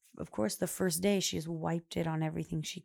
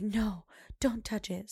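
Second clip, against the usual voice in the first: put-on whispered child; 3 semitones higher, slower than usual. Child refusing, retold by mom.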